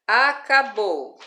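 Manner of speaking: "Acabou" loud and slow, weight on final BOU; teacher's emphatic a-ca-BOU for "Acabou"; stress on BOU. Shown as a demonstration. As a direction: stretch "Acabou" syllable by syllable towards a strong BOU. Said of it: "bo é a sílaba tônica".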